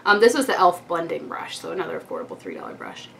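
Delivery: talking around a retainer; slightly lisping through retainer; wearing a retainer. Real, not acted. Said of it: "my retainer with my whitening gel".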